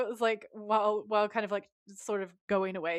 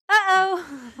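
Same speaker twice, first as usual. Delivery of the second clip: high, loud laughing uh-oh; 11 semitones higher, 12 dB louder than usual. Real, not acted. Reaction written in notes.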